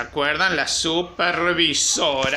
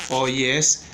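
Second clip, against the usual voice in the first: slow dictation; 2 semitones lower, much slower than usual. Shown as a demonstration. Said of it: "ponemos acá".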